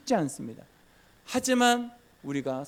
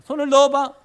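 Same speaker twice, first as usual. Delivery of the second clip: God's command; 10 semitones higher, 11 dB louder than usual. Acted. God commanding Moses.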